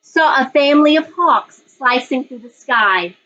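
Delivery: put-on reading a picture book aloud to children; story narration. A narrator's reading. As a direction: tell it gently, like story time for the class. Teacher reads picture book aloud.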